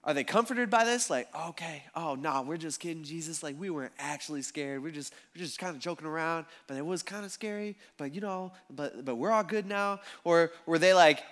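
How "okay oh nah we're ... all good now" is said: sheepish backpedalling. Retold or imitated. Disciples brushing off their scare to Jesus, sheepish. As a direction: play it down quietly, hedging as you go.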